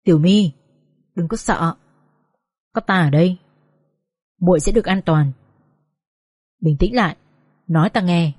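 low, steady comforting voice; calm a shaken younger companion; reassuring. Acted. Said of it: "A Hắc phải liên tục trấn an".

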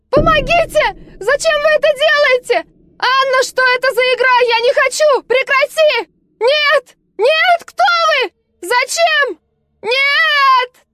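high desperate screams for help, fighting someone off; terrified screaming. Acted. Girl under hypnosis screaming at her attackers, terrified shrieks. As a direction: scream in terror, begging them to stop. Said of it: "а потом закричала".

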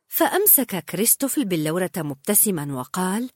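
plain reading voice

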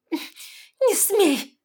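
very high, loud warning; sharp cry. A narrator's reading. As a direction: forbid him. Heroine protesting.

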